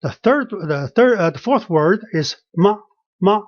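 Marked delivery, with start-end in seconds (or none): 3.2-3.4 "吗" held level, all flat. Shown as a demonstration. Teacher showing the fourth word, "吗" level. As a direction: keep "吗" on one horizontal line. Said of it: "That means it's all flat".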